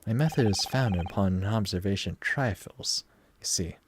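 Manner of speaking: a Southern twang creeping into a stiff British gent; slipping into a Southern accent. Acted. Streamer voicing the detective, a Southern accent slipping in. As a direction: aim for British, land in Southern. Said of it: "I'm slipping in southern accent".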